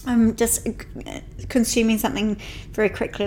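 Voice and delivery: eating while talking; mouth full. Real, not acted. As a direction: talk through a mouthful of cereal bar. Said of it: "Are you eating?".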